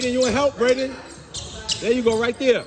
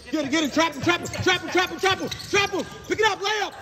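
calling from far away; 7 semitones higher, 4 dB quieter than usual. Real, not acted. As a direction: yell it across the gym, building. Coach yelling defensive calls.

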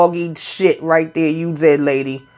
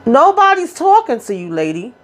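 high, pitched-up yell at the lady; mock yell; 6 semitones higher than usual. Retelling the clash, a high mock yell at the lady. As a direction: snap it out high and sharp. Retold shout at the mama.

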